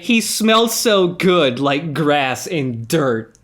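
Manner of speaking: slow, hammed-up swooning read; sultry mock reading. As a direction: drag it out like a cheesy romance. Hammy reading of steamy diary.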